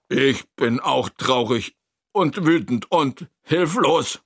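deliberate exclamation at ordinary pitch; emphatic call. Acted. Narrator shares Toni's feelings, calling out emphatically. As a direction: call it out word by word. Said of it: "rufe ich".

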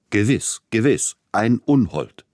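slow, emphatic, amused relish; amused agreement. A narrator's reading. Tchaikovsky joins in mocking his friend, amused and emphatic. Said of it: "amüsierte sich, er lachte am lautesten".

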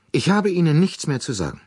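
deutlich höher und scharf abweisend; kalt abweisend. A narrator's reading. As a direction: schneidet dem Frager das Wort ab. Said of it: "fertigte sie den lästigen Frager kalt ab". (sie weist den lästigen Frager kalt ab)

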